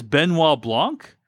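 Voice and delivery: "Benoit Blanc" said slowly with French nasal vowels; slow, French-style "Benoit Blanc"; French pronunciation. Shown as a demonstration. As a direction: give "Benoit Blanc" a careful French sound. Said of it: "kind of like a French person".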